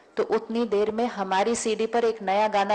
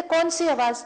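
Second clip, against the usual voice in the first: mock-bewildered question, pitched higher; puzzled surprise; 7 semitones higher than usual. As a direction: ask as if there is no sound at all. Man retold, hears no noise. (हैरानी से पूछना)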